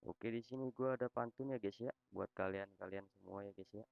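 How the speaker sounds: robot voice, text-to-speech reading; flat synthetic robot voice; social media tts voice. Real, not acted. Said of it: "gue pakai suara robot".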